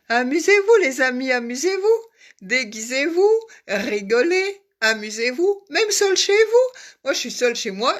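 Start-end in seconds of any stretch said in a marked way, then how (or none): 0.1-6.7 appel aigu et joyeux au public; enjouée. Real, not acted. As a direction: invite tout le monde à s'amuser. Encourage son public. (enthousiaste et aiguë)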